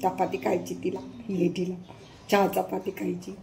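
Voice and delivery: low and soft; gentle pet talk. Real, not acted. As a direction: murmur fondly to a pet being fed. Cooing over the dog eating. (लाडाने हळू आवाजात)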